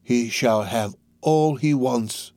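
Fagin, coaxing. Acted.

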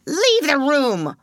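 slow, stern command; cold order. A narrator's reading. Headmistress dismissing the maid, slow and stern. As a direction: drop each word like a verdict. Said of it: "ordered Miss Minchin".

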